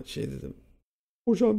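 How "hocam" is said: high, loud retold outburst; upset appeal. Wronged student appealing to the teacher, high upset cry. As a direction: call out in mock distress. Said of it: "moralim çok bozuldu".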